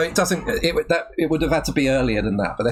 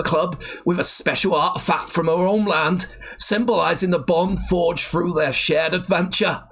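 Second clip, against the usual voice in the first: shaky-skilled mock Geordie narration; attempted Geordie accent. Taking over the Biker Grove script, attempted Geordie accent. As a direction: read it out in an amateur Geordie accent. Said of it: "It's not that I've not heard a Geordie accent".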